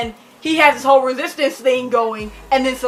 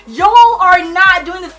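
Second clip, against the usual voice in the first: mock protest; 6 semitones higher, 8 dB louder, slower than usual. Protesting the ship in the book.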